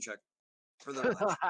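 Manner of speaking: hiccup breaking the sentence; hiccuping mid-line. Real, not acted. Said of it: "I'm having the hiccups".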